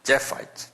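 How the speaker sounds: 제파이트 said softly, almost breathed, stress on the first syllable 제; teacher quietly modelling 제파이트; soft pronunciation demo. Shown as a demonstration. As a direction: breathe out 제파이트 with the accent at the front. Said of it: "다 액센트가 앞에 있어요".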